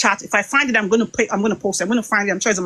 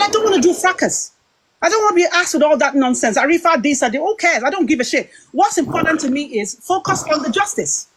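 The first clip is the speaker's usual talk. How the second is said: heated retort; 5 semitones higher than usual. Retold or imitated. Retold heated call, angry rant.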